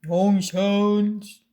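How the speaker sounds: loud put-on reprimand; stern storybook telling-off; scolding mother. A narrator's reading. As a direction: snap it like a cross mum. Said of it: "Their mother scolded".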